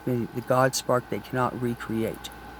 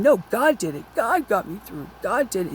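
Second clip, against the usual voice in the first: angry insistence; 6 semitones higher than usual. Retold or imitated. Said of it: "And I got so angry".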